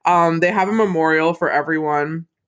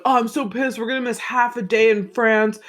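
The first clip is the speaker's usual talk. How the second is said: higher-pitched mock complaint; mock pissed-off whine; 6 semitones higher than usual. Jack griping about missing half a day in France, mock pissed-off. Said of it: "then Jack's like".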